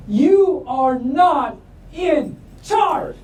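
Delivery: slow, drawn-out, chanting yell; slow group yell. A narrator's reading. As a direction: yell it like the whole forest. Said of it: "all the animals in the forest yell".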